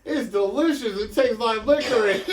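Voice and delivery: cowboy voice. Acted. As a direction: play it like a goofy cowboy. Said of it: "but I did that in the cowboy voice".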